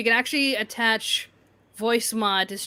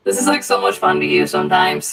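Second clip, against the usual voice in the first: breathless whispered voice changer; whisper filter; 7 dB louder than usual. Shown as a demonstration. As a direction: ghostly whisper effect.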